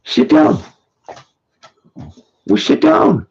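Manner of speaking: pet-talk order, high and bright; high dog-talk. Real, not acted. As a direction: cheer the dog into sitting. Commanding the dog.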